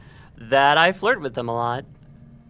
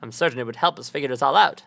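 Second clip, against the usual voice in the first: lightly voiced nerdy scholar; a hint of a fussy bookish nerd. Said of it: "I have to do a nerd voice".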